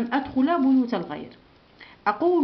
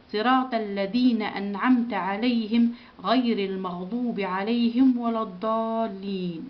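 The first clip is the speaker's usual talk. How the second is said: steady chanted recitation of the Fatiha; Quran recitation. Shown as a demonstration. Teacher recites Al-Fatiha with pupils, chanted. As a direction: recite it evenly for the class to follow.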